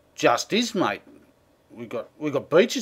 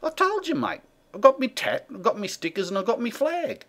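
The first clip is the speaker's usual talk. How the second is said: pitched way up, impatient and insistent; exasperated insisting; 7 semitones higher than usual. Acted. Bogan fed up with the Canadian interviewer, exasperated insisting. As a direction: hammer it home like he's said it twice already.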